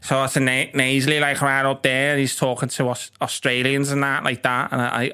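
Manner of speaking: lightly imitated nasal Scouse accent; nasal Scouse impression. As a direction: do your mate's nasally Scouse. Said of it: "That's a lovely impression you've just done".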